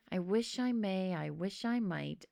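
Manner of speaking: hushed whisper, slowing down; whispered wish. Acted. Alvin wishing on a star at night, whispering. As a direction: breathe the rhyme against the window. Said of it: "I whispered against the cold glass".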